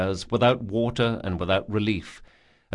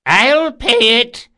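high, loud, slow cry; shouting; 13 semitones higher, 10 dB louder, slower than usual. A narrator's reading. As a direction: call out from the stands. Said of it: "cried an old man in the stands".

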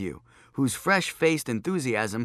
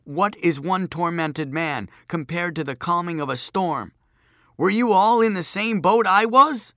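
speechifying; 6 semitones higher, 5 dB louder than usual. A narrator's reading. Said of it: "cleared his throat".

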